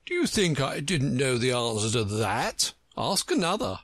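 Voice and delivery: lightly voiced pompous egg; a touch of a conceited character voice; Humpty Dumpty, scornful. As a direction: answer with haughty scorn.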